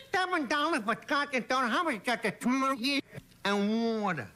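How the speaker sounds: speech-impaired guy. Retold or imitated. Bar patron asks the bartender the price, slurred mock voice. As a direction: order a drink in a mumbly impaired voice. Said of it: "he talk like this".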